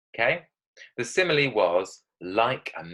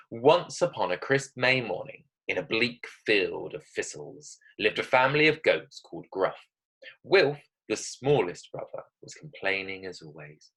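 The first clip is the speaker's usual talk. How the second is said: story narration. Acted. Reads her story aloud.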